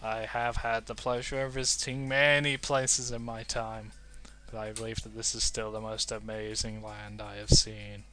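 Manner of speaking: a gruff storyteller voicing Wanderer; deep wanderer voice. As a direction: voice him like a wise old wanderer. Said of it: "this is my voice now".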